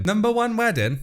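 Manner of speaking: rising, puzzled double-take; puzzled reread. Real, not acted. Reading aloud to viewers, puzzled at the odd phrase. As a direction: squint at the words in disbelief. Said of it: "Oh, no plus one wedding".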